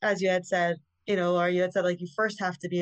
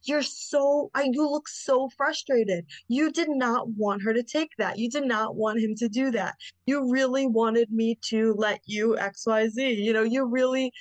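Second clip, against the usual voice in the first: soothing reflecting; 3 semitones higher than usual. Retold or imitated.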